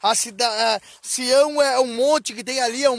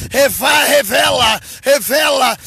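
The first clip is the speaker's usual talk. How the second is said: exortação enfática; slower than usual. Acted. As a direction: punch out each command forcefully. Exorta citando a ordem divina. (exortação em voz forte)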